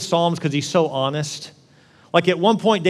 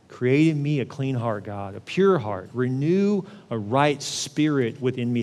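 slow prayer; 2 semitones lower, slower than usual. Acted. Praying the psalm slowly.

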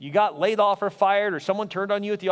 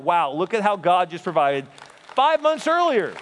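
put-on excited girls; 4 dB louder than usual. Girls amazed.

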